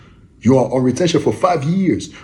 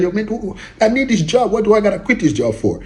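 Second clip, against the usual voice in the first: higher, incredulous pushback at the idea; protesting listener; 8 semitones higher than usual. Retold or imitated. Listener imagines the angel saying quit, answers in a high, disbelieving protest. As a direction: play the worker who refuses to quit, pitched up and disbelieving. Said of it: "You be like".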